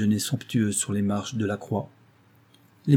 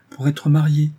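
«Pour être mariée» said higher and louder, as a firm answer; raised, poised insistence; composed emphasis; 5 semitones higher, 7 dB louder than usual. A narrator's reading. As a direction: state «Pour être mariée» firmly and deliberately. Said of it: "fit-elle d'un ton posé".

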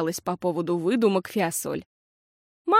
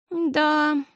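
sheepish; 8 semitones higher than usual. A narrator's reading. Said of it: "сконфуженно сказала Фиасоль".

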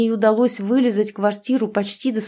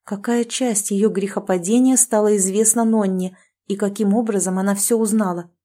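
ordinary delivery, nothing marked

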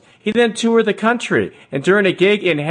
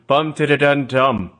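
vocal drum beat; 4 semitones lower than usual. Retold or imitated. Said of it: "doing kind of a jazz standard caravan beat".

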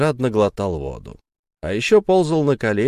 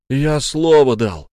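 despairing; 3 semitones higher, 5 dB louder, slower than usual. Acted. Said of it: "в отчаянии выдал он".

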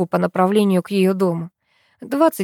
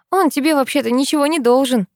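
reasonable objection; 6 semitones higher than usual. A narrator's reading. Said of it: "не соглашается с ним здравый смысл".

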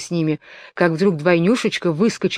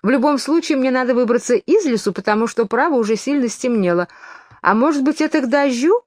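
higher, brightened up on purpose; forced cheerfulness; 6 semitones higher than usual. A narrator's reading. Alice changing the subject, forcing herself cheerful. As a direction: put on a brave cheerful face. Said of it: "продолжала как могла веселее".

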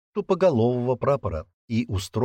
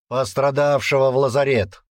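curt command; 4 semitones higher, 4 dB louder than usual. Acted. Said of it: "Тоном, нетерпящим возражений".

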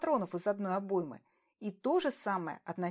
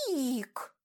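drawn out; 3 semitones higher than usual. A narrator's reading. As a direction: stretch the name out slowly. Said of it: "протянула Чия". (протяжно)

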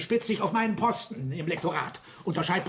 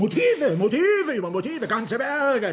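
excited outburst; 4 semitones higher, 4 dB louder than usual. Acted. Agitated speaker lists suspects' motives.

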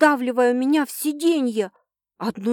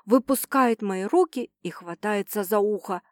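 ordinary delivery

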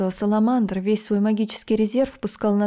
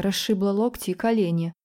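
usual speaking voice

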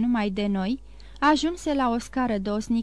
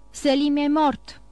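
slow, raised call, leaning on mort; voice from below; 4 semitones higher, 4 dB louder than usual. Acted. Enemy calling up from the depths to the pasha, slow hollow call. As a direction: announce it from far below, slowly. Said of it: "un glas care părea că pornește din adâncimile".

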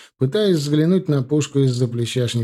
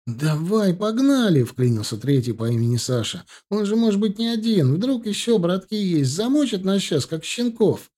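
much higher frantic voice; panicked urging; 8 semitones higher than usual. A narrator's reading. Third thug begs the driver to flee, high and frantic. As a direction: hurry them up in panic.

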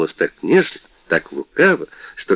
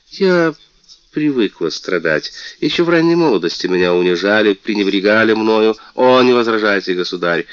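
высокий, звонкий голос обиженной принцессы; жалуйся, как оскорблённая принцесса; мультяшная принцесса; 4 semitones higher, 4 dB louder than usual. Acted. Принцесса жалуется королю. (принцесса жалуется королю, звонко и обиженно)

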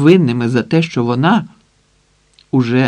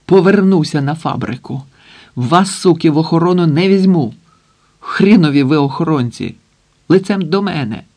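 shouting; 3 semitones higher than usual. Acted. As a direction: yell at the useless guards. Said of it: "закричав". (гнівний крик)

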